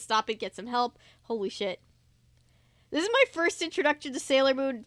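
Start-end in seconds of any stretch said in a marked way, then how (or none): 2.9-4.8 exasperated aside. Real, not acted. Reader complains loudly, aside.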